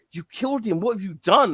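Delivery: high, shocked accusing voice; mock horrified accusation. Classmates accusing the boy, high mock horror. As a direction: blame him for what he did.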